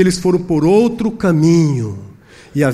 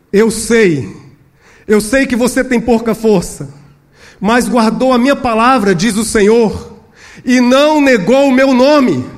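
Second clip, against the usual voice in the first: raised, emphatic preaching voice; forceful proclamation; 8 semitones higher, 7 dB louder than usual. Acted. The Lord affirms a weak faithful church, forcefully. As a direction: declare it firmly as the Lord's word.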